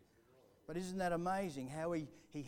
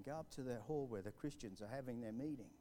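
soft pestering voice; 3 semitones lower, 7 dB quieter than usual. Retold or imitated. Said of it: "the little voice kept pestering".

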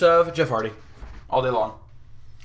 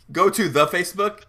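laughing, higher and incredulous; laughing mockery; 4 semitones higher, 4 dB louder than usual. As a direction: repeat it through a laugh. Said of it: "You sound like an old man".

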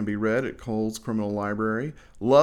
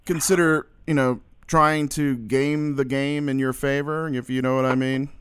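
excited; 4 semitones higher, 4 dB louder than usual. Acted. Excited interviewer hamming it up.

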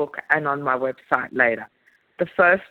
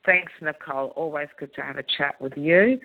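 hoarse, croaky throat. Real, not acted. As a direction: speak through a croaky voice. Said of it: "Sorry about my croaky voice".

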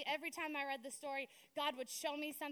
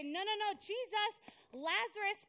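mock protest; 6 semitones higher, 4 dB louder than usual. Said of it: "And they say".

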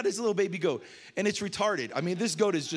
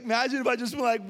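mock announcement; 4 semitones higher than usual. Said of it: "that's what I was saying to her on FaceTime".

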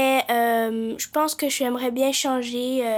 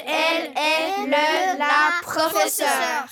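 hammy stage actor. Acted. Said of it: "le déclamer, le proclamer".

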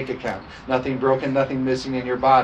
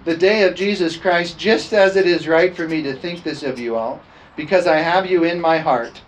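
raised, ringing scripture reading; emphatic scripture preaching; 4 semitones higher, 5 dB louder than usual. Acted. Pastor reading Paul's letter to the church, emphatic preaching. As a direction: preach the verse out with firm volume.

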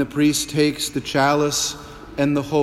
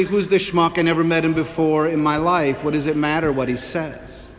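scornful parishioner. Retold or imitated. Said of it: "Or you might say".

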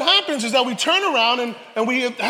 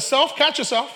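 self warning; 4 semitones higher than usual. Retold or imitated. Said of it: "I said".

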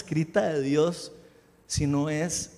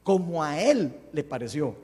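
"Él" punched louder, after a pause; stress on Él; 2 semitones lower, 5 dB louder than usual. Shown as a demonstration. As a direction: insist firmly on the word "Él". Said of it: "pongan atención a eso". (recalcar con fuerza la palabra "Él")

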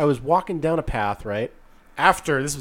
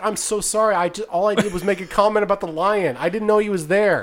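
higher-pitched, pleading retold apology; profuse apology; 5 semitones higher than usual. Man apologizing to mother of a crying kid, pleading. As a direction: plead that you meant no harm. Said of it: "I apologized profusely".

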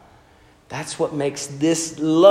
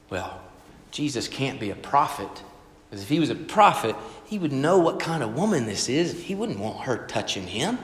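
softer, lower, muttered to himself; inner thought; 3 semitones lower, 6 dB quieter than usual. Retold or imitated. Simon the Pharisee doubting Jesus inwardly, quiet. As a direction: think it quietly, sceptical. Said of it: "he thinks to himself".

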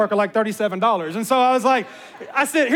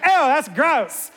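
imitating Sarah; 3 semitones higher, much slower than usual. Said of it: "that's kinda how he talks".

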